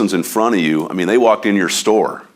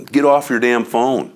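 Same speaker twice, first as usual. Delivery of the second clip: exasperated; 5 semitones higher than usual. Real, not acted. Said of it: "it just frustrates the heck out of me".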